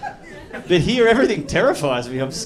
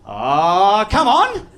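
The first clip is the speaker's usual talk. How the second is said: mock pleading; 4 dB louder, much slower than usual. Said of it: "you can go".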